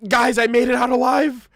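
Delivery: hint of a breathless survivor bragging to townsfolk; survivor's tale. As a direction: gush it out like a guy who barely escaped. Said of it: "told his story ... and be like".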